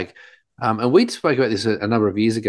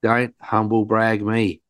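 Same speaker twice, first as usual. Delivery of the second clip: scolding father; slower than usual. Retold or imitated. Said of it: "I go".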